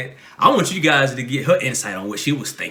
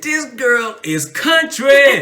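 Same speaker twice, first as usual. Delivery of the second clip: laughing; 11 semitones higher, 8 dB louder, much slower than usual. Retold or imitated. Retold, slow and laughing.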